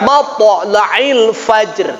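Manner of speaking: "Matla'il fajr" drawn out slowly; slow recitation. Shown as a demonstration. Teacher models the verse ending, slow chant. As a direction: chant each syllable clearly.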